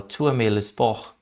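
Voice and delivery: Tu aimes le sport very slowly, with each word apart; slow French demo. Shown as a demonstration. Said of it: "Ele falou". (frase francesa dita bem devagar)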